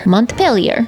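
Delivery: "Montpelier" in a muddled made-up accent; unidentifiable accent. Shown as a demonstration. Didn't take French, trying "Montpelier" in an unidentifiable accent. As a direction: guess at an accent for "Montpelier", mont-PELL-yer. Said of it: "I don't even know what that accent is".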